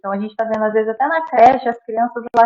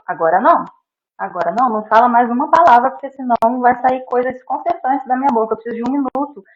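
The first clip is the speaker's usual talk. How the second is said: calm firm pause; 5 dB louder than usual. Retold or imitated. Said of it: "eu falo".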